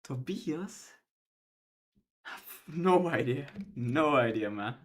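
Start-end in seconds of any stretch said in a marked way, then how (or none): 0.0-0.9 put-on Swedish accent. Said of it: "Like your Swedish, uh, accent". 2.2-3.5 put-on light Swedish accent, higher pitch; a hint of a Swedish accent, pitched up. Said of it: "Like your Swedish, uh, accent".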